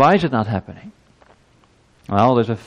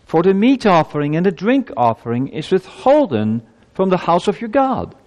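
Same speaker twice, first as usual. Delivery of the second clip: raised, higher-pitched scripture reading; ringing pulpit reading, pitched up; scripture proclamation; 6 semitones higher than usual. Acted. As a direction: proclaim the verse to a congregation. Reads scripture aloud to congregation.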